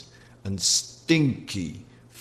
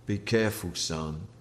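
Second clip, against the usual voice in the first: low, soft fatherly warning; a hushed father's warning; quiet warning; 4 semitones lower, 8 dB quieter than usual. A narrator's reading. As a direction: caution him gently but firmly. Father warns son with a look.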